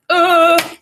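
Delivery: loud, high "Ugh" of pure delight; a happy high ugh; delighted groan. Real, not acted. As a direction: groan with joy at good writing. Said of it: "good writing alert".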